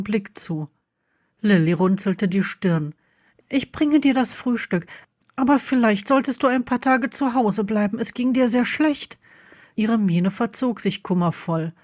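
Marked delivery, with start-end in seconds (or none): 3.5-9.2 slightly higher, caring daughter voice; gently insist, as a worried daughter; a hint of a fretful girl; lightly voiced concerned daughter.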